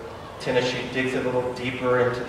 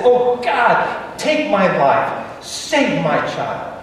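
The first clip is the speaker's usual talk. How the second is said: desperate cry; 3 semitones higher, much slower than usual. Retold or imitated. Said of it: "he just cries out".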